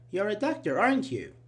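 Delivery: "aren't you" stressed as a checking tag; seeking confirmation. Shown as a demonstration. Teacher sees a white coat, seeking confirmation. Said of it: "Here I'm seeking for confirmation".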